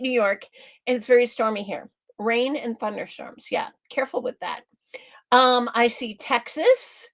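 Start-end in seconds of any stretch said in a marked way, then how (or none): 3.5-4.6 fast whisper, careful with that; whispered warning. Real, not acted. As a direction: lean in and whisper the caution quickly. Warning a viewer about storms.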